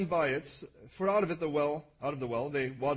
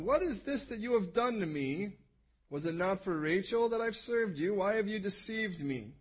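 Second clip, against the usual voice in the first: indignant accusation; 5 semitones higher than usual. Acted. Jacob confronts Lavan over the deception.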